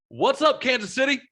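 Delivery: high-pitched comic greeting the crowd; squeaky-high mock shout-out to an audience; Shane Torres. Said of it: "comes out, goes, grabs the mic, goes".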